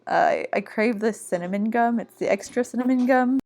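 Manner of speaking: talking while chewing gum; words round a piece of gum. Real, not acted. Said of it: "put a piece of gum in my mouth".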